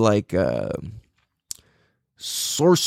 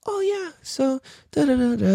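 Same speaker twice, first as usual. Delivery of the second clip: soft-spoken; 12 semitones higher, 3 dB quieter than usual. Retold or imitated. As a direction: imitate a soft-spoken intellectual, high-pitched. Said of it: "He's all soft and soft spoken".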